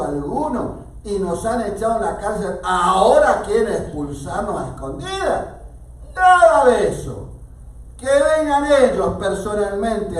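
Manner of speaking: loud, high outraged retort; indignant protest. A narrator's reading. Paul answering the guards as a wronged Roman, indignant protest. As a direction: throw the offer back with indignation.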